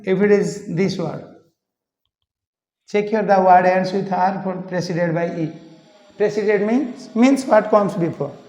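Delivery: usual speaking voice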